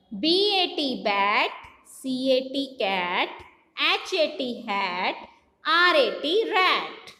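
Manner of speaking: slow spelling chant, each word stretched; phonic drill. Shown as a demonstration. Teacher drilling children in phonics, measured chant. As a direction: spell it out in a measured sing-song, last word falling. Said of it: "phonic drill".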